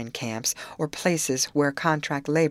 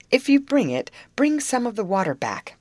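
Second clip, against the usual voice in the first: lightly voiced pleading, pitched up; begging; 7 semitones higher, 4 dB louder than usual. A narrator's reading. Mr. Stonington begs the girls to bring water back, pleading. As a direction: beg eagerly for the water. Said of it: "begged Mister Stonington".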